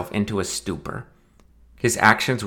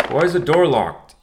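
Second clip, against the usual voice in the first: father through door; 7 semitones higher than usual. Acted. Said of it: "he asked".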